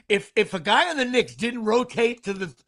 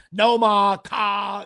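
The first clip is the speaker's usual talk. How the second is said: louder, exaggerated Boston accent; 6 dB louder, much slower than usual. Shown as a demonstration. Host mocks clichéd accent auditions, Boston accent. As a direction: do a quick stock Boston accent. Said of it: "how hard it is to do a Boston accent".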